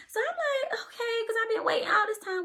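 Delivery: high, tearful and breaking; crying. Real, not acted. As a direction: voice cracking with happy tears. Emotional retelling, voice cracking.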